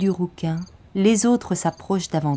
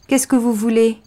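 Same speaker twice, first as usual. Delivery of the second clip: scared but brave; 5 semitones higher, 4 dB louder than usual. Acted. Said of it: "Il est terrorisé".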